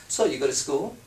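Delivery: flat, soft, dull small talk; mock the dreary questioner; imitating a boring date; boring interview questions. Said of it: "saying shit like this".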